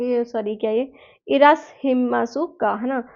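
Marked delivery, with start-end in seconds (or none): 1.3-2.7 "इरासहिमासुका" slow and careful with a falling end; "इरासहिमासुका" slow formal; formal Japanese. Shown as a demonstration. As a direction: spell out "इरासहिमासुका" slowly. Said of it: "formal tone में".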